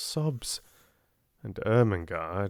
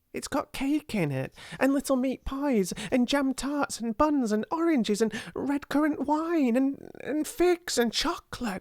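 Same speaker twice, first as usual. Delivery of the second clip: tumbling words. A narrator's reading. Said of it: "words began to tumble over each other".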